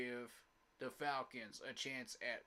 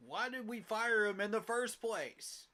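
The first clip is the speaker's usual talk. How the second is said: higher, louder and slow, in disbelief; outraged; 7 semitones higher, 4 dB louder, slower than usual. Real, not acted. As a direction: demand an answer, exasperated. Fan outraged over firing.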